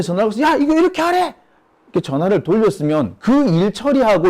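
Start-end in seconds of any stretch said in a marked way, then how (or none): 0.4-1.3 high, pressing pretend relay of an order; mock urgent shout. Manager phoning the staffer with the chairman's order, shouting. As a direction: pass the boss's order down in a yelp.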